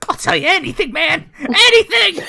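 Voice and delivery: high, loud, pleading gush with a laugh; desperate blurting. Acted. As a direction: beg to be believed. Gnoll blurts under Zone of Truth.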